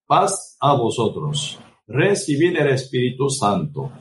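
solemn words of Christ. Retold or imitated. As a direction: lay each word down slowly and solemnly. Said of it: "Y él dice". (voz de Cristo, lenta y solemne)

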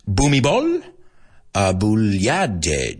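"Bhumibol Adulyadej" attempted slowly in separate parts; best-effort pronunciation. Shown as a demonstration. Comic attempting a Thai king's name, careful pronunciation. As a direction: sound out "Bhumibol Adulyadej" carefully, pausing between names. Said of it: "I'm gonna do my best".

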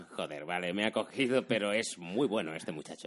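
lightly voiced dubbed American crook; a hint of film-dub Spanish; Spanish dubbing accent. Caught robber admiring Spider-Man's quips, in Spanish dubbing accent. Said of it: "Además hablan así, allí".

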